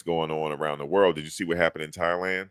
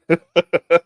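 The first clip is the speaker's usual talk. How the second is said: loud high laugh; 11 semitones higher, 10 dB louder than usual. Real, not acted. Streamer laughing at his own joke.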